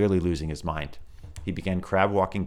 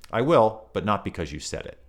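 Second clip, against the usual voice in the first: sharp retort; 4 semitones higher, 7 dB louder than usual. Acted. Susan's sharp retort to Peter.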